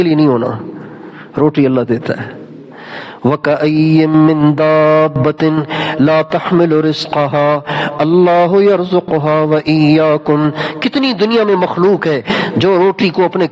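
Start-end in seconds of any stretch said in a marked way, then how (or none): 3.2-10.5 Quran recitation. Acted. Preacher reciting about provision to listeners, measured chant. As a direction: intone the verse with calm reverence.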